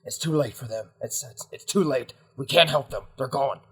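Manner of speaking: companion pressing a friend to flee, insistent; pressing, agitated in-character urging; urgent rescuer. Acted. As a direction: hurry them out with short, repeated phrases.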